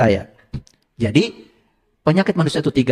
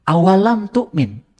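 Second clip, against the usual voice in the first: Arabic-style phrasing; slower than usual. Shown as a demonstration. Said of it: "kalau kamu mau sok-sok Arab".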